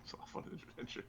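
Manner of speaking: whispered aside. Real, not acted. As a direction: whisper it playfully. Aside about the character.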